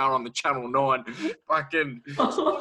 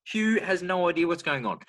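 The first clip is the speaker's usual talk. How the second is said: usual speaking voice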